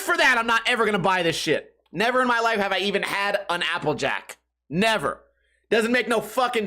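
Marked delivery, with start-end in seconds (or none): none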